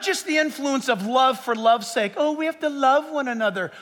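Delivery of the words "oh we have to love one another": a hint of saccharine piety, mocked; mocking sappy voice. Preacher mocks shallow love talk, mild sappy mimicry. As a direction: lightly mimic a syrupy churchgoer. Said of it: "stop talking like that".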